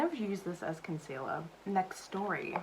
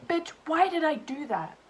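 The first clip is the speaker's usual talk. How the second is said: exasperated at herself; 9 semitones higher, 6 dB louder than usual. Real, not acted. Cringing at own blunder.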